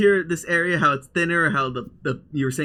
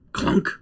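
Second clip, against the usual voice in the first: clunk sound effect. Acted. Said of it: "narrator voices a sound".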